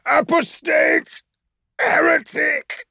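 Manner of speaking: very high, loud, slow screamed curses; raging captive screaming curses; screamed tirade. A narrator's reading. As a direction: spit each word out as an insult. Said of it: "spittle-punctuated tirade".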